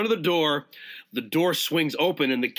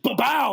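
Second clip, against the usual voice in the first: imitated chop noise; 9 semitones higher than usual.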